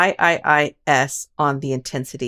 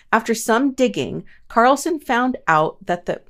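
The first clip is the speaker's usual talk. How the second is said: voice cracking; 5 semitones higher than usual. Real, not acted. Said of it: "did my voice just crack?".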